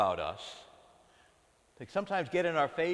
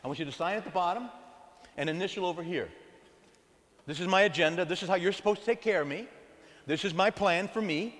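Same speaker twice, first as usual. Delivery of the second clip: demanding agenda; 3 semitones higher than usual. Retold or imitated. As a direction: hand God the contract to sign. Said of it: "We say".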